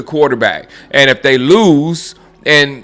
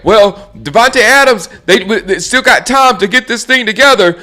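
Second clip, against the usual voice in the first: mock pundit; 6 semitones higher than usual. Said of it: "They said".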